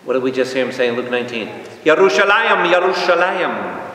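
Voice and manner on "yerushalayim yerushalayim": impassioned scriptural lament, high and sustained; crying out. Acted. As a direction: call out mournfully to a whole city. Quotes Jesus lamenting over Jerusalem.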